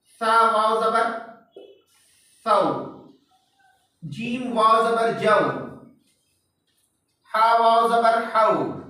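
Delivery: slow, each syllable spelled out; teacher slowly spelling out syllables; slow spelled-out recitation. Shown as a demonstration. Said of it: "अब उसकी मिसाल देख लेते हैं".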